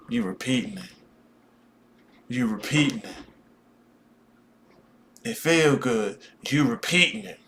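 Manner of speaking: mock guru. Mocking a spiritual guru.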